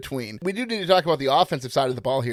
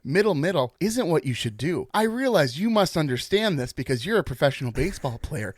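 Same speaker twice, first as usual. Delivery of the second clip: mock gentle apology. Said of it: "Let me try again".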